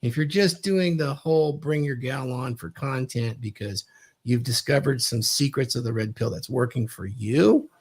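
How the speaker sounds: ordinary talk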